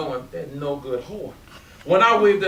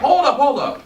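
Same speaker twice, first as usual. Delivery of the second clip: laughing; 10 semitones higher, 8 dB louder than usual. Acted. Laughing disbelief at Daddy-O.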